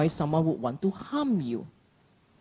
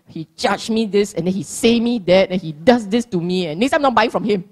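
louder, aggrieved inner rant; petty grudge muttered aloud; mimicking a grumbling mind; 5 dB louder than usual. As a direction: replay the fishmonger quarrel indignantly. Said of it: "your mind is just going".

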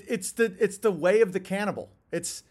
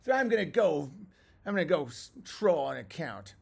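whiny quitter; 3 semitones higher than usual. Retold or imitated. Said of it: "don't be".

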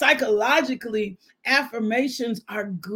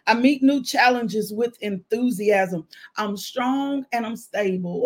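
affirmation. Shown as a demonstration. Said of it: "just repeat after me".

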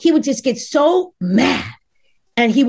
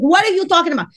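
baffled; 6 semitones higher, faster than usual. Retold or imitated. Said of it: "I was like".

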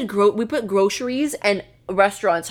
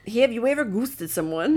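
unconvincing Irish lilt; attempted Irish accent; 2 semitones higher than usual. Shown as a demonstration. Told to actually do it, botched Irish accent. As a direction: try Irish and miss. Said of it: "No, that's not Irish".

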